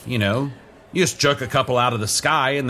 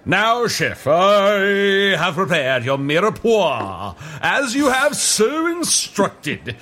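formal servant voice; 5 semitones higher, slower than usual. Acted. Servant chef addressing the head chef.

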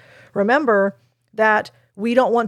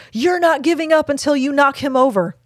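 higher-pitched encouraging therapist line; esteem-building response; 5 semitones higher than usual. Shown as a demonstration. Therapist models an esteem-building response to a child, encouraging. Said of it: "use an esteem building response".

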